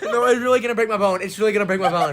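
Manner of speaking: loud laughing protest; laughing in pain. Real, not acted.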